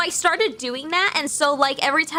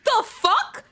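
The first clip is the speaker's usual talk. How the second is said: high-pitched, amazed gushing; envious delight; 7 semitones higher, slower than usual. Real, not acted. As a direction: gush with real, high-pitched envy. Delighted envy at the blessing.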